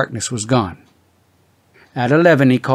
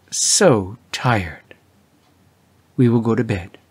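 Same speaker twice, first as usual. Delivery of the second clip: whispered, worn out and defeated; exhausted husband whispering to his wife; weary whisper; slower than usual. A narrator's reading. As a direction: breathe it out like a beaten man.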